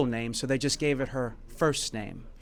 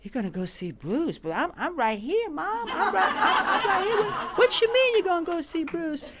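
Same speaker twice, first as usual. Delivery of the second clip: laughing confusion. Retold or imitated. Retold young self confused, laughing.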